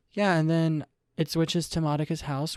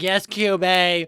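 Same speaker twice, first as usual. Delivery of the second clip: loud, slow cheer of "Yes, Kyubey"; 6 semitones higher, 12 dB louder, much slower than usual. Retold or imitated. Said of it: "I was like".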